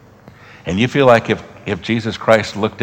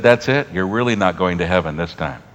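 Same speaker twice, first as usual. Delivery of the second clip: mock condemning; 5 dB louder than usual. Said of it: "he looked at him and said".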